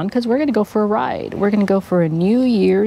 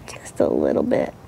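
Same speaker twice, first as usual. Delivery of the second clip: whispering; 12 dB quieter than usual. Real, not acted. Adjusting helmet mount.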